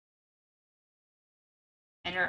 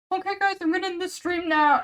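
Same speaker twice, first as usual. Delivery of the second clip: higher, laughing through the line; 10 semitones higher, 5 dB louder than usual. Retold or imitated. Streamer imitating himself ending stream, laughing higher. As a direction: giggle while ending the stream. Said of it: "Me without view screaming".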